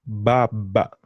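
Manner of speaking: "baba" with open ah vowels, bah-bah; Swahili a vowel. Shown as a demonstration. Teacher modelling Swahili "father" for learner, open vowels. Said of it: "Say that again".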